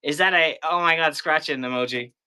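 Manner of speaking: high, loud surprised gasp. Real, not acted. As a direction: react with sudden surprise. Reacting to a chat emoji.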